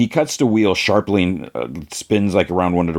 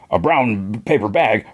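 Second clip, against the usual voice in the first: questioning echo in near-usual voice; lightly voiced Sweet Tooth; 3 semitones higher than usual. Sweet Tooth objects to the insult, lightly acted disbelief. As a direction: repeat it back, slightly raised, as a question. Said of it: "Sweet Tooth's like".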